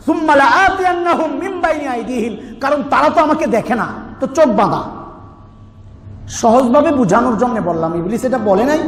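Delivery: ordinary talk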